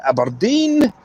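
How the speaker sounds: ABERDEEN with open "a", "Ab-er-deen"; mock-posh pronunciation. Shown as a demonstration. Rejecting the toffs' way, Aberdeen as posh "Ab-er-deen". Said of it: "No point in saying".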